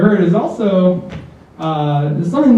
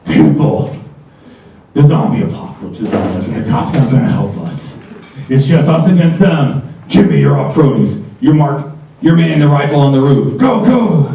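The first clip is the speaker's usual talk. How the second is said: manager rallying staff; 2 semitones lower than usual. Retold or imitated. Manager to his staff, commanding like a war general. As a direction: bark orders like it's the apocalypse. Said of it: "You got the manager rounding up his staff".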